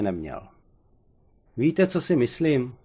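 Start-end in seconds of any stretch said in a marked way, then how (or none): 1.6-2.7 sudden higher, exasperated burst; exasperated outburst, a touch louder. A narrator's reading. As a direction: blurt it out, losing patience with the silent old man. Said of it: "vybuchl jsem".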